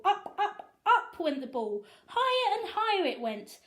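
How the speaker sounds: high, lifting narration; rising wonder. A narrator's reading. Narrator following the ball into the sky, pitched high. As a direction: let the voice climb with the ball. Ball flying ever higher.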